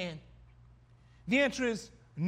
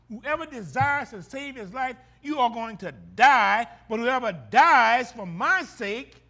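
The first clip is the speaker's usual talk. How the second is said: louder, slow, driving warning; forceful quote; 7 dB louder than usual. Acted. Preacher voicing Jesus warning his disciples, forceful and slow. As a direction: hammer home the warning.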